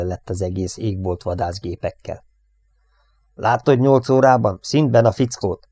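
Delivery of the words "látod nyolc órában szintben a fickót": high, loud shriek with stress on nyolc. Acted. Raskal shrieks a warning to the gunner, loud. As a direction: cry out the warning. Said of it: "rikoltotta Raskal".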